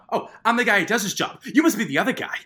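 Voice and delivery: high, fast, cocky Boston cop quote; hammed-up cocky cop bravado; mock tough cop. Quoting Mark Wahlberg's tough line.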